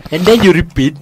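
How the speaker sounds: put-on Indian accent; amateur Indian accent; attempted Indian accent. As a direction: explain it in a mock Indian accent. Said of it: "in an Indian accent".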